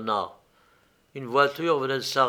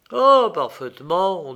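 light, airy, higher dismissal; carefree tone; 4 semitones higher, 7 dB louder than usual. A narrator's reading. Count feigns indifference to the stranger's identity, carefree. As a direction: toss it off as if unconcerned. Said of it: "d'un ton insouciant".

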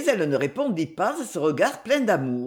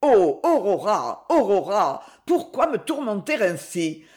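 impatient outburst. Acted. Banker to his daughter, sudden impatient outburst. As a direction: plead and scold at once. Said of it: "avec un soudain accès d'impatience".

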